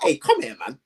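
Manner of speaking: swaggering come here; cocky call-out. Retold or imitated. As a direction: call them over like you run the place. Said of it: "I'll be like".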